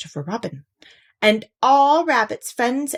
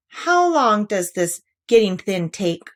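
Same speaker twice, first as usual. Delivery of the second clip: anxious; 4 dB louder than usual. Acted. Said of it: "asked Pooh anxiously".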